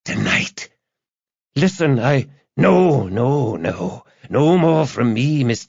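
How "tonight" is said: high, gloating madman on the phone; crazed joy and terror. A narrator's reading. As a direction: taunt her in a high, deranged voice. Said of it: "his voice a mixture of joy and terror".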